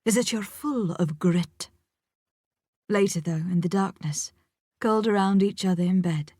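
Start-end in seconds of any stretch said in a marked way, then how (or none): 0.0-1.7 mock Scottish accent. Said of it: "he says in a mock Scottish accent".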